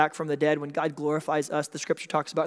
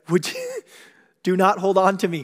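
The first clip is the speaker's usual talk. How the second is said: chuckle of Jesus; 3 semitones higher, 5 dB louder than usual. Retold or imitated. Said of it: "can only be said through a chuckle of Jesus".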